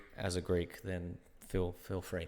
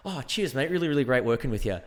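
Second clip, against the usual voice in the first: put-on Australian accent; 4 semitones higher, 4 dB louder than usual. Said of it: "Australian accent in real life".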